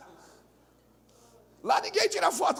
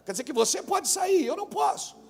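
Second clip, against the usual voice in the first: mock exasperated shout; 4 semitones higher than usual. Pastor retelling quarrel with member.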